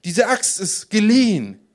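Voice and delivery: loud, high, drawn-out plea; horrified plea. A narrator's reading. Borrower turning to Elisha about the axe, horrified plea. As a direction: wail it slowly in dismay. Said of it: "schrie er entsetzt und wandte sich zu Elisa".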